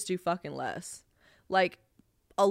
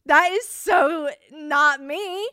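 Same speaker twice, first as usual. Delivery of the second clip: slow, high, loud, drawn out; indignant denial; 8 semitones higher, 8 dB louder, much slower than usual. Real, not acted. Denying the cartoon looks like her, slow indignant. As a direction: stretch every word in disbelief.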